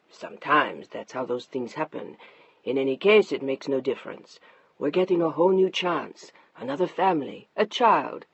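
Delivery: a hint of a patient husband; soothing husband. Narrator voices husband Mark.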